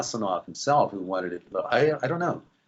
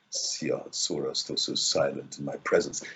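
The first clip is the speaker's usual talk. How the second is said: deep morning voice; 8 semitones lower, 6 dB quieter than usual. Shown as a demonstration. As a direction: sink right down and keep it hushed. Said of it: "bring it back down to this level".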